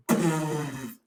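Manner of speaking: long blown-out whoosh; imitated roaring blast. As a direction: blast of air like a roaring lion. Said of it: "like a lion screaming at her".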